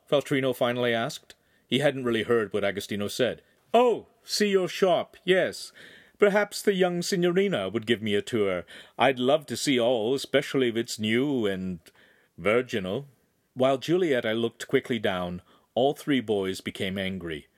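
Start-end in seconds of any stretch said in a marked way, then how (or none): 3.7-13.1 a hint of lecherous, haughty insinuation; leering noble.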